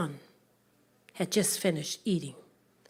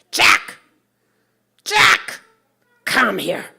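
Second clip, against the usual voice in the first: loud call; 2 semitones higher, 13 dB louder, much slower than usual. Acted. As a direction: yell for him across the fields. Mother shouting for her son.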